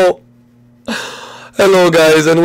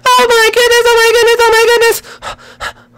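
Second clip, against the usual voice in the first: very high frantic princess falsetto; high-pitched Peach freaking out; panicked princess. Acted.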